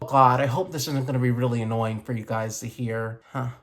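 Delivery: talking with whitening strips on teeth. Real, not acted. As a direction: speak around strips on teeth. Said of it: "I'm not used to things in my mouth".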